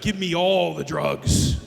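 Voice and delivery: slow, stretched-out plea for drugs; drawn-out demand. Retold or imitated. Mom in labor demanding drugs, drawn-out. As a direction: drag out every word as a demand.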